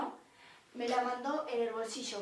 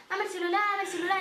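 a lightly higher mocking thug tone; mock tough demand; 6 semitones higher, faster than usual. The sister's rough demand, lightly mocked. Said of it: "acompañando al movimiento turresco".

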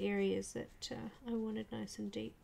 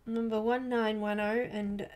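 talking through hiccups; hiccuping between words; 5 dB louder than usual. Real, not acted. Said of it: "got the hiccups".

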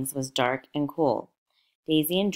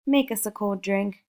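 cried out; 6 semitones higher than usual. A narrator's reading. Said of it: "cried Daisy".

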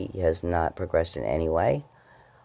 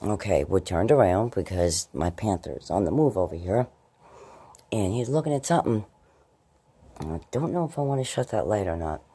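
ordinary talk

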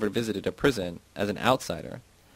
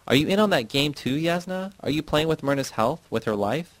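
angry; 6 semitones higher than usual. A narrator's reading. Angry confrontation with Yasna.

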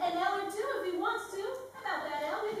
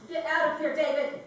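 cold anger; 8 dB louder than usual. Acted. She throws him out.

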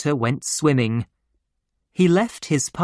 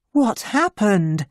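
higher, puzzled voice; anxious question; 7 semitones higher than usual. Acted. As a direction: ask with rising concern. Worried sister questions stricken doctor.

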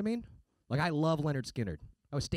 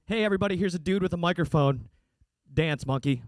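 mock bland announcer, a bit louder; mocking the host; 2 semitones higher, 6 dB louder than usual. Comic mocking the host's intro, mildly hammed-up. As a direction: parody a lazy emcee intro. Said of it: "that's what I just heard".

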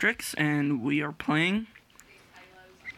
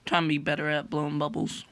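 talking while chewing gum; words around a wad of gum; faster than usual. Real, not acted. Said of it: "I got some gum in my mouth".

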